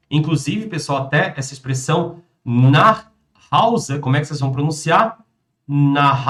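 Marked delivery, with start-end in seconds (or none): none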